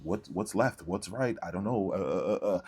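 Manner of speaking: mock befuddled stammering; feigned confusion. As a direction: imitate someone playing clueless, trailing into "uh"s. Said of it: "They start to act confused".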